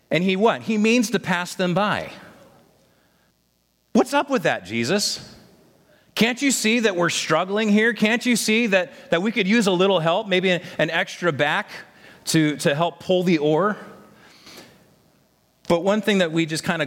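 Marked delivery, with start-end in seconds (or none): 3.9-13.0 higher, exasperated plea to Jesus; exasperated complaint. Acted. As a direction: complain like tired rowers who feel ignored. Preacher voices disciples complaining to Jesus.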